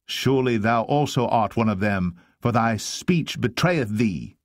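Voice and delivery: single him out, sure of the charge; pointed accusation. Acted. Bystanders accuse Peter.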